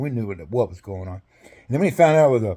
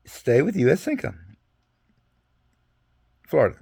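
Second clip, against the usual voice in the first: re-read the wording as if checking it; reading it again. Retold or imitated. Soldier rereading his orders to the sergeant, reading aloud. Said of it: "Let me read it again".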